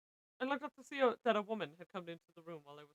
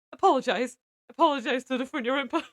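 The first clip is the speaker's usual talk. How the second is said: loud, higher-pitched scolding order; angry demand; 5 semitones higher, 10 dB louder than usual. A narrator's reading. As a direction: demand an apology forcefully.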